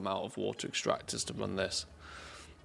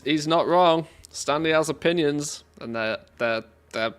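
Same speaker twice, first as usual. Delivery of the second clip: louder, higher insistence; emphatic agreement; 5 semitones higher, 7 dB louder than usual. Real, not acted. Streamer loudly backs the bot's Fawlty Towers pick. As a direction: hammer the agreement home.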